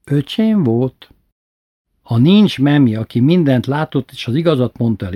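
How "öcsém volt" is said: slow, deliberate accusation; sly blame. Retold or imitated. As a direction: pin it on the little brother. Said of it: "Bátyó kicsit később szólalt meg".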